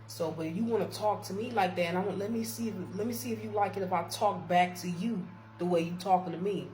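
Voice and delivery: firm, confrontational retort; giving it back. Retold or imitated. Worker talking back to supervisor her way, confrontational. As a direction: throw the attitude back, retold. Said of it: "I'm talking to her now the way she talking to me".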